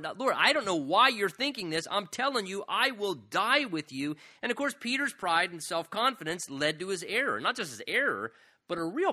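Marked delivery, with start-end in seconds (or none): 0.0-4.2 arguing. Retold or imitated. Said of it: "Peter argued with the Lord".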